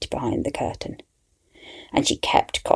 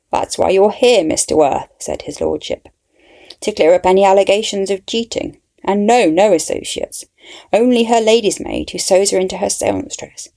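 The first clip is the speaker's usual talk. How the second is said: a lordship's voice; 5 semitones higher, 3 dB louder than usual. Acted. Lordship defends his lady to investigator.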